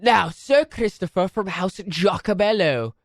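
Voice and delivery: mock posh English announcer; lightly put-on British formality; English host accent. Asking Sir Christopher for his pick in English accent. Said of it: "What an Italian name for an English house".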